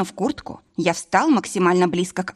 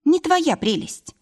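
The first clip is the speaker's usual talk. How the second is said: proudly; 10 semitones higher, slower than usual. A narrator's reading. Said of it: "гордо отвернула свой носик".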